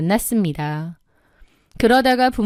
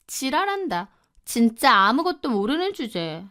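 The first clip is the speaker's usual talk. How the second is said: softer, contemptuous aside; scornful muttering; 2 semitones higher, 4 dB quieter than usual. Acted. Younger sister dismissing her clueless sister, contemptuous. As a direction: mutter it dismissively under the breath. Sister scoffs during phone quarrel.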